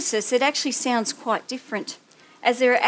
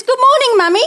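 put-on much higher, louder little boy voice; child's voice; 12 semitones higher, 9 dB louder, faster than usual. Mother imitating her son greeting her at dawn, high child voice. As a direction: chirp it like a cheerful seven year old.

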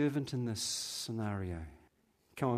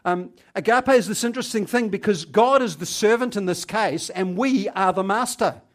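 louder, higher, fervent sermon voice; full-force preaching; 8 semitones higher, 12 dB louder than usual. Acted. Preacher proclaiming God as servant to congregation, full-force preaching. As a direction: preach it out to the back pews.

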